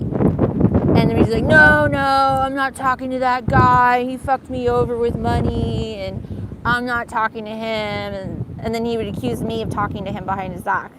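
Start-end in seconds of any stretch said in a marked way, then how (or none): 1.4-8.1 imitating Dimitri. Dimitri refusing about brother.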